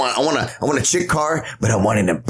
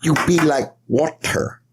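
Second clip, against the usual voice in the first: slow, higher-pitched fake Chinese accent; Bruce Lee; 4 semitones higher, slower than usual. Defending the impression to a doubting friend, exaggerated fake Chinese accent. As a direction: insist on the mock Chinese accent, drawing the words out. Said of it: "That's how he says it".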